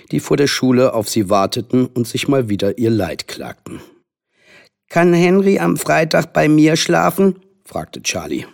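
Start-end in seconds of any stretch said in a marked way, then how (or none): 4.9-7.4 put-on higher-pitched eager child; pleading young boy. A narrator's reading. Charlie asking mother for a sleepover, eager. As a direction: ask like a small boy wanting permission.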